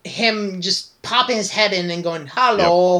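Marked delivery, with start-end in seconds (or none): 2.3-3.0 drawn-out, odd little hello; lightly imitated oddball voice; weird voice. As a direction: mimic an awkwardly dubbed pop-in greeting. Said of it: "saying hello in a weird voice".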